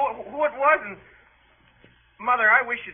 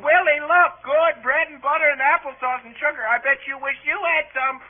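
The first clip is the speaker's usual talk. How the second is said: higher-pitched mock calling; imitated holler; 4 semitones higher than usual. Brother acts out sister's applesauce taunt, mock holler. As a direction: mimic a taunting little sister. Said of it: "she kept hollering".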